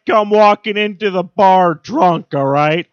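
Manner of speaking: high, loud, slow cartoon voice building to a shout; cartoon character voice. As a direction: play the bar buddy scolding, then yell. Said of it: "my Family Guy impersonations".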